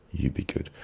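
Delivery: a hushed goodnight to the listeners; whispered sign-off "You be good"; soft whisper. Shown as a demonstration. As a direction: whisper it gently, breath only.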